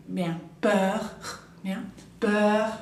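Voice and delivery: peur ending in a throaty French R. Shown as a demonstration. Teacher showing students the French R in peur. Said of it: "la R final suena tipo como una G".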